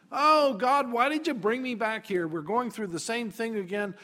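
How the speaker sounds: mildly hammed-up protest; exasperated complaint. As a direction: plead with God in exasperation. Voices Moses complaining to God.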